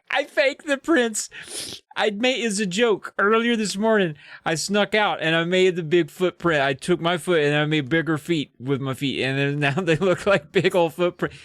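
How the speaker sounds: high opening, then eager tumbling; gleeful confession. Acted. Jordan admits he faked the prints, mock-gleeful confession. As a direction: crow about the prank, lightly acted. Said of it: "he burst out laughing 'cause he can't hold back".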